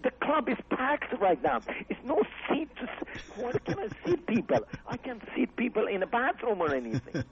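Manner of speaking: high, incredulous, half laughing; exasperated protest. Retold or imitated. Jamie protesting to Carlin that the club is full, high exasperated voice. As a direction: plead your case, voice way up.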